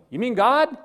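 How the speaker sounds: high, loud incredulous question; amazed high-pitched yelp; astonished question. Acted. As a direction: ask in amazement, voice jumping up. Jack astonished at the voice.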